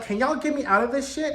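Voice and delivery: high, put-on voice begging; pleading to sisters. The muse begging the Fates to free her, high pleading voice. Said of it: "Was like".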